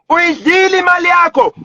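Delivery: repeated as a real angry shout; real angry shout of the accusation. Real, not acted.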